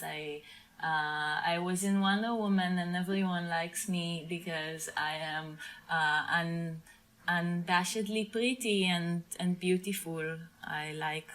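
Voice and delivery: lightly put-on Israeli accent; Gal Gadot. Shown as a demonstration. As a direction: improvise a halting Israeli-accented actress introduction. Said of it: "I can really do the, uh, Gal Gadot accent".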